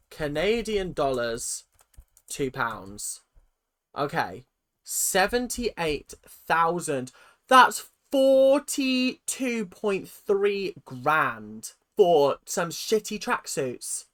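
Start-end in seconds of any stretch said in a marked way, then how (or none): 4.8-14.1 slow and louder, spelling out the sum; slow outrage. Real, not acted. Ranting at the con man over tracksuit cost, slow outrage. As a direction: drag each number out in disbelief.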